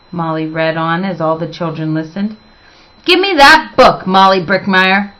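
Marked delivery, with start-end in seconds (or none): 3.1-5.1 roaring. Acted. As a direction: bark out the demand like a dragon. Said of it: "roared Miss Scales".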